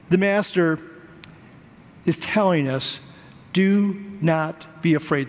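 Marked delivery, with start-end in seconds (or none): 3.5-5.3 slow it down and lay out "Do not be afraid" gravely; slow solemn quote. Shown as a demonstration. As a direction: Do not be afraid, slowly, each word weighed. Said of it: "Three times in the passage I read".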